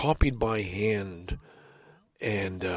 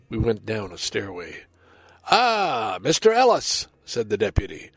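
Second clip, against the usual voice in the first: measured poem recital, narration level and dialogue lifted; dramatic poem reading. A narrator's reading. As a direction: tell the poem as a tense little story, quotes acted out. Reads a poem aloud.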